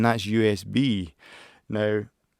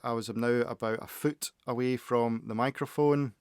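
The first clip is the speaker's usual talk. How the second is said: softer, slightly distant off-mic voice; a foot from the mic; 7 dB quieter than usual. Shown as a demonstration. Vlogger leaning back to test mic pickup, slightly distant. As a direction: lean back and talk from a foot away. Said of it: "lean back a little bit further".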